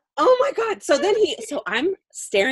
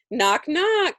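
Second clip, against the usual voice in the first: higher, sing-out door announcement; calling out knock-knock; 5 semitones higher, 3 dB louder than usual. Retold or imitated. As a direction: call it out to warn whoever is inside. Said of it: "then with my voice".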